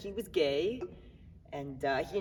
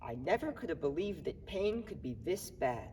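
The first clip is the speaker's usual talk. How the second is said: quoted sick man; 4 semitones lower, 10 dB quieter than usual. Retold or imitated. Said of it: "One day he looked at me and he said".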